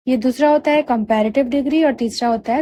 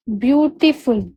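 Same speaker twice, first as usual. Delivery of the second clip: ब्यूटीफुल said slowly in three parts, ब्यू-टी-फुल; measured ब्यू, टी, फुल with light breaks; syllable by syllable; slower than usual. Shown as a demonstration. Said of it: "इसमें तीन syllable हुआ".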